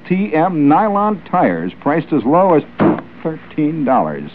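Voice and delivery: slowed, emphatic announcer read of a tire commercial; radio ad copy read with mock gusto. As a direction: sell the tire sale like a pitchman.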